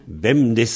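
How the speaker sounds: Bemdes with the final s sounded; Léon pronunciation. Shown as a demonstration. Teacher showing the Léon dialect, final s sounded. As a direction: end Bemdes on a voiced s. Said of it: "en léon, il y a un Z à la fin, on dit Bemdes".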